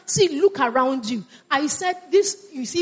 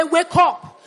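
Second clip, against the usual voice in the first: rousing call; 3 semitones higher than usual. Real, not acted. Congregation told to repeat the call.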